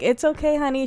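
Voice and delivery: gently retold reassurance; reassuring mom. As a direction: imitate a mom soothing her child. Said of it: "how the mom approached it".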